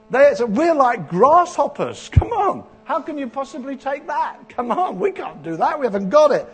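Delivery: mock-despairing spies, loud and high; loud complaining spies. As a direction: plead loudly that it can't be done. Preacher acts fearful spies' complaint.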